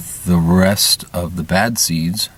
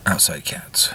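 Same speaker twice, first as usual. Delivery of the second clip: breathy whispered aside; 6 dB quieter, slower than usual. Real, not acted. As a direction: drop to a whisper. Aside to the cats.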